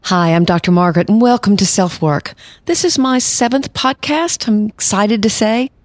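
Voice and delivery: earnest new podcaster straining to sound polished; nervous high voice. Real, not acted. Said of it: "my voice went up about an octave".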